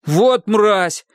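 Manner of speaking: blurted. A narrator's reading. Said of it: "осмелев выпалил Хилли".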